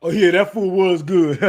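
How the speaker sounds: mock careless guard. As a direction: play the guard who doesn't care, eating. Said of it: "You know what the guard's doing?".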